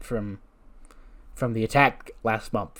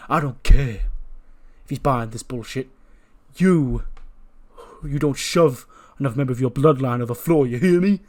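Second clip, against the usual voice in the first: halting, emphatic reprimand, rising louder; stern scolding; 3 dB louder than usual. Acted. Roman orders Jay not to shove family, stern. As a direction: lay down the law, getting louder.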